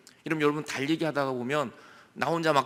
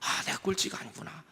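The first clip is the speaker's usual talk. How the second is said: whispered realization; 7 dB quieter than usual. Acted. Inner realization, unvoiced.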